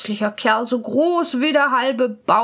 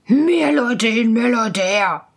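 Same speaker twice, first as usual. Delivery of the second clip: loud, scornful ghost; spirit shouting dismissively; 5 dB louder than usual. Acted. Spirit dismissing the student's objection, calling out. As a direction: brush the objection aside forcefully. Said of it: "rief der Geist".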